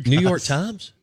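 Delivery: amused disbelief, rising; laughing question. Real, not acted.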